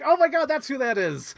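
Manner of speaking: high laughing recognition; light up remembering her; retold realization. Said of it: "I was like".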